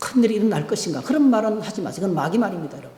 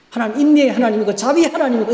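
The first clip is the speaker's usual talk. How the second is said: ordinary talk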